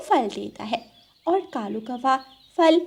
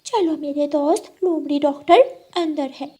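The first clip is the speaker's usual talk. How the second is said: high, sweet-talking cat voice with meows; a scheming cat luring her friend; high purring cat voice; sly black cat; 4 semitones higher than usual. Acted. Cat leads crow in.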